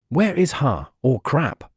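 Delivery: a touch of panicked alarm; alarmed exclamation. Acted. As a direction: blurt it out, suddenly worried. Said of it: "Noel exclaimed".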